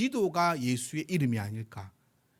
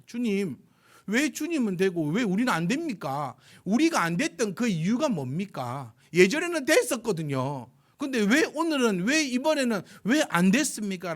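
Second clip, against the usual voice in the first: pleading disciples; 4 semitones higher, 3 dB louder than usual. Retold or imitated. Disciples question Jesus earnestly.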